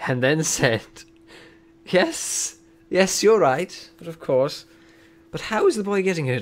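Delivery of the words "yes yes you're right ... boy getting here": high, put-on professor voice; McGonagall's voice. Professor conceding to Dumbledore, high acted voice. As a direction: play the professor, pitched well up. McGonagall's reply read in character.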